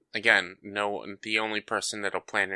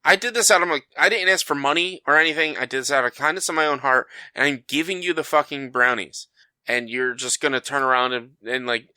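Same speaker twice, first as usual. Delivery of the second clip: mock indignant rant; 4 semitones higher than usual. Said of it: "I'm like".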